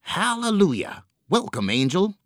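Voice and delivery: high excited welcome; joyful cry. A narrator's reading. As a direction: cry out with relief and joy. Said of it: "cried the pig".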